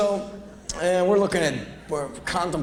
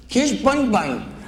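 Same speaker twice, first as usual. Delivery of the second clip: high, drawn-out mock woman voice; slow, high put-on crazy customer; crazy woman's voice; 9 semitones higher, slower than usual. Crazy woman presents her sick rabbit, high mock voice. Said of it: "this woman talked like this".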